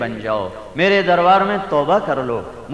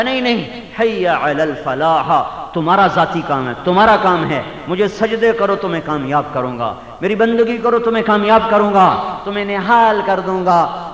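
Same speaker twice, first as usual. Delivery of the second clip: fervent divine reply; 3 semitones higher than usual. Retold or imitated. Preacher voicing God answering the worshipper, rising fervour. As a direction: promise success with mounting force.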